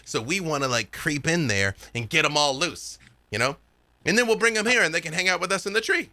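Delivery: lightly voiced kid, running on eagerly; a hint of a young gang leader laying out the plan; earnest scheming kid. Kid tells the party about goblin workers, lightly voiced eager explaining.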